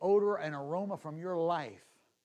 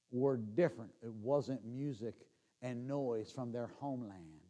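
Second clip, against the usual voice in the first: usual speaking voice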